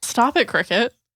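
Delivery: loud shouting. Yelling at a cricket after being asked to: yelling. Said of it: "You just yell".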